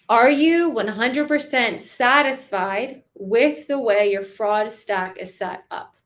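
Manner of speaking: slow question, stress on you. Shown as a demonstration. Sales coach asks prospect about fraud stack, slowly. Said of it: "Now I can ask that in many different ways".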